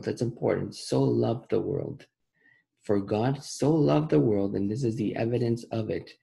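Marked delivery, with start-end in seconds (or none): 0.7-2.1 slow, deliberate reading, word by word; slowly. Shown as a demonstration. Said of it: "Let's read it slowly". 2.8-4.6 slow, deliberate reading, word by word; slowly. Shown as a demonstration. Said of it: "Let's read it slowly".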